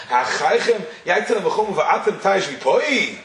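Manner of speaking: slow, shocked rising question, stress on "v'poi"; shocking question. Shown as a demonstration. Rabbi showing how the Rebbe read Moshe's rebuke, shocked. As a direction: read "Ha'achaychem yaitzel ha'machumu va'atem taish v'poi?" as an incredulous challenge. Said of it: "read it as the shocking question that Moshe asked".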